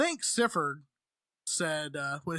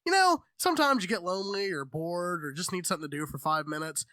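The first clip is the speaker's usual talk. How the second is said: mock ad read. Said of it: "be like".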